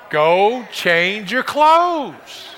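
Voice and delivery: slow, drawn-out mock command; wife's real meaning. Women revealing what they really mean, slow emphatic command. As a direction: spell out the order, word by word. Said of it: "what do you really mean?".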